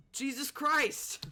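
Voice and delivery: high, slow exasperated groan; drawn-out exasperation. Real, not acted. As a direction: stretch it out in disbelief. Exasperated at the rude guide.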